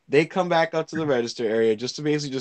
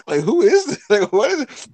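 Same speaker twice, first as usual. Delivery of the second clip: suspicious ex; 8 semitones higher, 5 dB louder than usual. Retold or imitated. Ex voiced suspicious.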